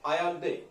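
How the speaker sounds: Allende with a y-like glide for the double l; local pronunciation of Allende. Shown as a demonstration. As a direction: say "Allende" the way those people call it, with a y sound. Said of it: "they called".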